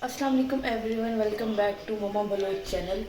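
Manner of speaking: rough, sore-throated voice; hoarse from sore throat. Real, not acted. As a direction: speak through a sore throat. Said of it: "मेरा गला खराब है".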